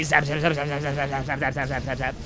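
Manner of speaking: rapid-fire repeated zaps, evenly chanted; imitated zapping. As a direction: mimic a laser with quick repeated words. Imitates Void Rays zapping.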